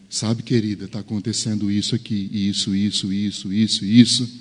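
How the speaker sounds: soft, calm telling of hard truths; husband gently confronting his wife, soft and calm; gentle correction. Acted.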